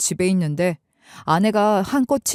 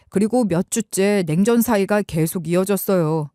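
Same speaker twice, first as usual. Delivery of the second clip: ordinary delivery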